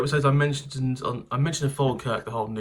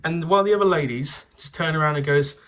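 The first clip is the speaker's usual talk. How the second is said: louder, mock-sober warning; mock sensible friend; 3 semitones higher, 4 dB louder than usual. Sensible student warning drunk friends, louder and mock-serious. Lady tells friends to slow down.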